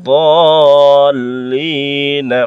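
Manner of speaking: দল drawn out at length before লি না; long madd on dal. Shown as a demonstration. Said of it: "টানতে হবে দদ জবরকে".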